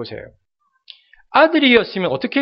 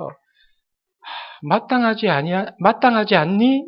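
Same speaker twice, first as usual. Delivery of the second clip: sorrowful sigh. Retold or imitated. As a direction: let the words sag with grief. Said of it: "깊은 슬픔의 탄식을 갖습니다".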